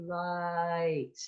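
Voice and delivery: light said slowly, ah then e; slow diphthong. Shown as a demonstration. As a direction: draw out light. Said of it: "If you say it slowly".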